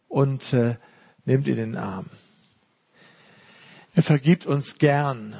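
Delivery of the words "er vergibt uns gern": "gern" drawn out slowly and stressed. Shown as a demonstration. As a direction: lean on the word "gern", taking your time. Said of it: "Die Betonung ist auf gern".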